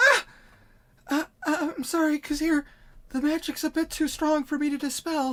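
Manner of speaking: screaming, then apologetic. Voicing a character shocked by her own spell: screaming, then apologizing. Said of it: "she scream".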